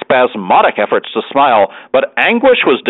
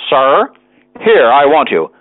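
calling out; 3 semitones higher, slower than usual. Acted. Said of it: "shouted from the opposite bank".

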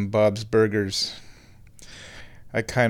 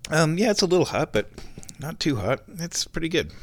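talking between sips of tea; words after a sip of hot tea; sipping hot tea; 4 semitones higher, 3 dB quieter than usual. Real, not acted. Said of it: "take a sip".

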